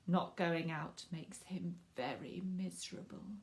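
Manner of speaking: hushed, sorry whisper. Acted. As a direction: whisper it like a sad secret. Neighbour's sad confidence.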